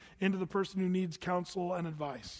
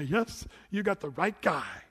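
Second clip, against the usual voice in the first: putting on a show; 2 semitones higher, 4 dB louder than usual. Pretend. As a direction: sell yourself like a showman. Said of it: "I'd put on a good show and say".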